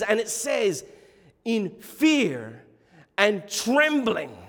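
high, animated pulpit storytelling; impassioned preaching. Real, not acted. Preacher retelling the woman's touch to the congregation, intense.

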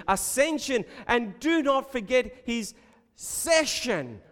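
high, loud, fervent preaching; pulpit-pounding appeal to the congregation; full-force preaching. Acted. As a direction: build it up like a revival sermon.

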